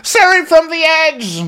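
hammed-up haughty title reveal; grand movie title. Joke movie titles in Karen's voice.

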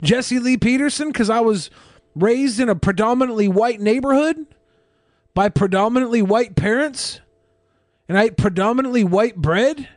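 hammed-up innocent answer; playing the guest. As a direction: spell it out in measured, rising phrases. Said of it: "And be like".

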